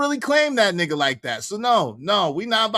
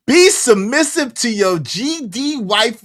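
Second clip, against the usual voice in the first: mock preacher; 5 semitones higher, 5 dB louder than usual. Mocking a clip he watched.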